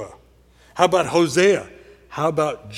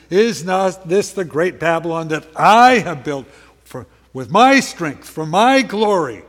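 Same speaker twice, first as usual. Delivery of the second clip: boastful king; 6 dB louder than usual. Acted. Preacher voicing boastful king Nebuchadnezzar.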